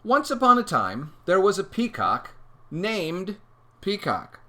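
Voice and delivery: slow, lifted storytelling voice; storybook opening. Acted. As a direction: open a fairy tale, drawn out. Begins reading the story aloud.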